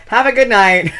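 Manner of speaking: loud, high farewell; big, loud goodnight; called-out sign-off. Real, not acted. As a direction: call it out to everyone. Calling out a sign-off.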